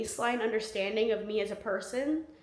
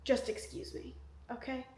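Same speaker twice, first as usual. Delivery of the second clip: sleepy yawning voice; 10 dB quieter than usual. Real, not acted. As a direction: yawn through the words. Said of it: "if I yawn".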